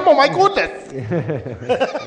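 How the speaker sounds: high, loud New York Jewish yenta; new york jewish accent. Retold or imitated. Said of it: "She sounds like a yenta from Brooklyn".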